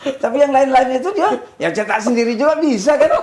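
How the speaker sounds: chuckling through the words; laughing while talking. Real, not acted. Joking about self-printed diplomas.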